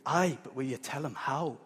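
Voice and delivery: clumsy attempt at a Scottish mum; bad Scottish accent. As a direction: have a go at Scottish, not very convincingly. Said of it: "I can't do a Scottish accent".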